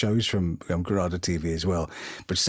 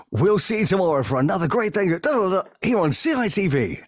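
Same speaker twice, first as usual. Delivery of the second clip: higher-pitched TV sign-off; announcer's link; 9 semitones higher than usual. Retold or imitated. Announcer doing a quick link mid phone call, high announcer voice. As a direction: sing out a breezy continuity link. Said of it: "just gotta do a quick link".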